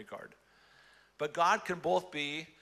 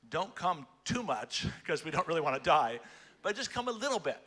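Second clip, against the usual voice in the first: mock timid plea; 2 semitones higher than usual. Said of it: "what we're really saying is".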